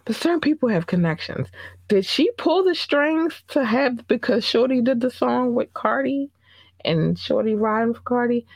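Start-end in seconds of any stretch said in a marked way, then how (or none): 1.9-8.4 dramatic gossip. Real, not acted.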